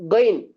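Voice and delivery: கைன் with a gargled gh from the upper throat. Shown as a demonstration. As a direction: start கைன் at the top of the throat, voiced. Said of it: "மேல் தொண்டையில இருந்து வரணும்".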